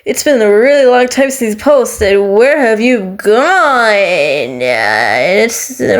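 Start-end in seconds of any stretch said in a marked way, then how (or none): 0.0-4.6 imagined puzzled viewer. Pretend. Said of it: "watching this and be like".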